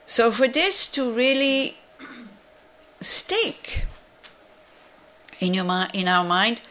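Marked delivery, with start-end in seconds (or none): 3.0-3.9 whispered. Real, not acted. Stressing that teaching must stick.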